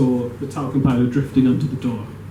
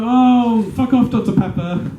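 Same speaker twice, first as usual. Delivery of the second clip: exasperated dismissal; 7 semitones higher, slower than usual. Acted. Stewardess dismisses the joke doctor.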